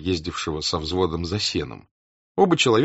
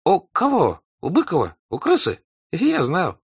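high, thin nasal voice; piping thin voice; 11 semitones higher, 4 dB louder than usual. A narrator's reading. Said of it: "другой тоненький голос".

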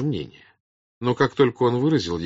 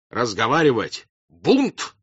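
outraged outburst in separate bursts; explode, high and loud on the peaks; beside-himself shouting; frenzied yell; 4 semitones higher, 4 dB louder than usual. A narrator's reading. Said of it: "не своим голосом завопил Ростов".

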